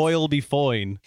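slow, mangled Irish accent; badly faked Irish lilt; practised Irish accent. Shown as a demonstration. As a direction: draw it out in an amateur Irish accent. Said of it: "practicing my Irish accent for this episode".

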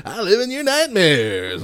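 slow, high spooky voice; creeping nightmare whisper. Acted. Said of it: "the sound that nightmares are made of".

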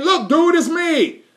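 a hint of Jesus fed up with his friends; casual exasperated Jesus. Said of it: "That's what he's saying".

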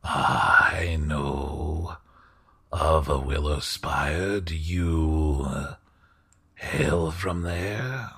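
slow, hushed aristocrat, often dropping to a whisper; a polite lord, unhurried and confiding; courtly host voice. Acted. GM holds the host's voice.

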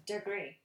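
DEGREE set apart, falling at the end; mimicked pronunciation. Teasing co-host on the word DEGREE, mimicked careful pronunciation. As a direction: tease by echoing an over-careful DEGREE. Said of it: "Did you hear that?".

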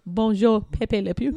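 playful put-on French, amused; cartoon Frenchman accent with a laugh; mock French accent. Echoing cohost's French joke, mock French accent.

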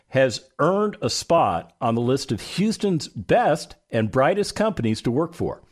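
ordinary delivery

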